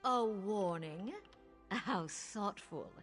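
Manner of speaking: slow, drawn-out mock gratitude; sarcastic. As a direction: savor the sarcasm slowly. Queen mocks the visitors' warning.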